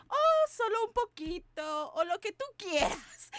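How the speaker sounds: lightly voiced mother, casual; mom's breezy voice. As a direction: toss it off like mom does. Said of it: "that's her favorite line".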